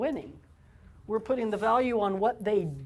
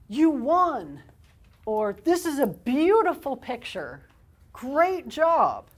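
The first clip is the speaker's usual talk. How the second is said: high, loud gushing praise; praising gushing; 5 semitones higher, 5 dB louder, slower than usual. Shown as a demonstration. Therapist demoing praise to a child, bright gushing. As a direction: gush over the child's picture. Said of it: "When we praise".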